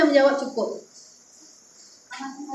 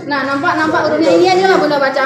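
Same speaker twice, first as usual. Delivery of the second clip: quick and eager; 2 semitones higher, 6 dB louder, much faster than usual. Real, not acted. Teacher speeds up, louder.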